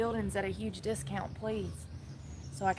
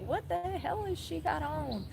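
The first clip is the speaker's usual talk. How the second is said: imitating students; 8 semitones higher, 6 dB quieter than usual. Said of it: "They were probably like".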